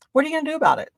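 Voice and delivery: high-pitched, daring comeback; defiant challenge. Retold or imitated. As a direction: fling it out as a dare.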